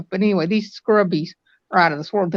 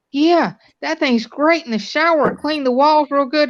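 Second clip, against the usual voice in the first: husband voice; 8 semitones higher, 3 dB louder than usual. Retold or imitated. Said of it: "her husband come up to her and said".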